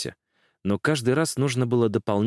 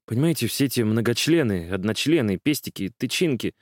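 сбивчиво; 3 semitones higher than usual. Acted. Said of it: "сбивчиво говорил он".

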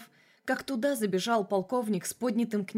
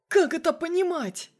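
much higher and louder angry demand; furious demand; 8 semitones higher, 6 dB louder than usual. A narrator's reading. Colonel demands explanation on the phone, furious. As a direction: demand an answer, raging. Colonel, then Masha repeats.

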